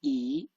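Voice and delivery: E with a rising pitch, like a question; second tone. Shown as a demonstration. Teacher showing learners second tone, rising E. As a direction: draw out E and lift it upward. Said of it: "second tone".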